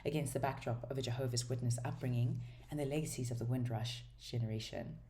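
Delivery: even, measured reading of a book blurb; blurb read-aloud. Acted. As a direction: read the back cover out evenly.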